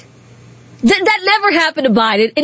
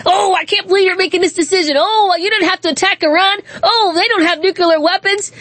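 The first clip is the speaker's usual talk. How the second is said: whiny mock outrage; 7 semitones higher than usual. Mocking media scolding Trump.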